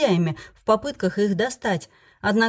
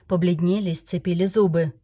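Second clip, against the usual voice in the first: ordinary delivery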